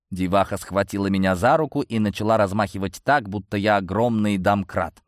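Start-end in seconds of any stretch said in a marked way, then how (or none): none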